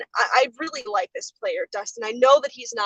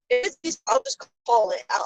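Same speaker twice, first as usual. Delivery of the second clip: bad connection; 11 semitones higher than usual. Real, not acted. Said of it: "I think we lost her again".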